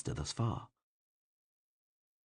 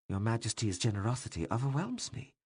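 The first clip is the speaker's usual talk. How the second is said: dry; 2 semitones higher than usual. Acted. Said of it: "the doctor said dryly".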